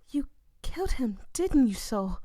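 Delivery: high hushed accusation; accusing whisper. Acted. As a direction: breathe the accusation out.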